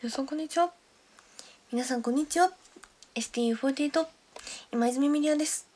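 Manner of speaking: a light retry of the idol's greeting; imitating Miria. Streamer retrying her impression of member Miria's intro. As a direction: try the member's intro again. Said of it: "今似てた？".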